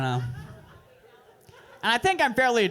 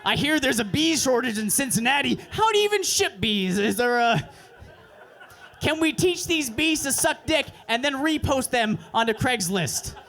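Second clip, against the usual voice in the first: mock scheming inner voice, higher; 5 semitones higher than usual. Broke guy scheming about bees, higher and excited. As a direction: hatch a wild plan in your head, pitched up. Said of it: "trying to flip bees in your head".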